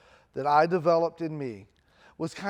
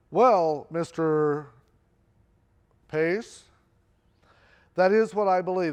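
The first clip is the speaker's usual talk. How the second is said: firm professor; 5 dB louder, slower than usual. Retold or imitated. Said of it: "he's like".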